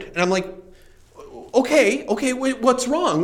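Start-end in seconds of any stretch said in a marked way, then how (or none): 1.5-3.2 higher-pitched, careful concern; retold gentle check on an upset friend. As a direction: ask carefully, voice lifted. Retold gentle response to her refusal.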